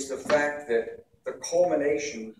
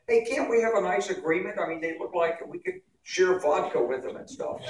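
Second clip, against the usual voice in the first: higher, lightly mocking naive peacemaker; mock dovish Democrat; 6 semitones higher than usual. Democrats wishing for a nice agreement, mocked lightly. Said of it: "Democrats are always like".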